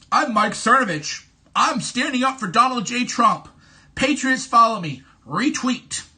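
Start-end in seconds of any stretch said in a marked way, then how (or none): 0.1-5.0 mock self-promoting tweet. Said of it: "Have you ever seen me retweet".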